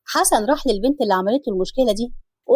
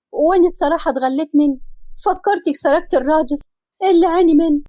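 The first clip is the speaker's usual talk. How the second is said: higher-pitched pleading confession; confessing woman; 3 semitones higher than usual. Acted. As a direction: own up meekly to the wife. The girl confessing, voiced higher.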